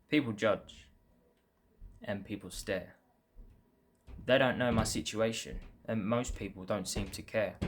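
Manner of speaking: measured poem reading, line by line; earnest spoken poem with pauses between lines; poem recitation. Acted. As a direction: recite your own verse in evenly phrased lines. Reads last poem aloud.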